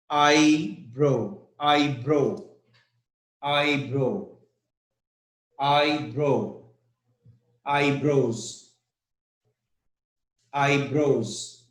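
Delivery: "eyebrow" stressed on eye, brow falling away. Shown as a demonstration. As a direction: lean on EYE in each "eyebrow". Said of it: "the stress is on eye".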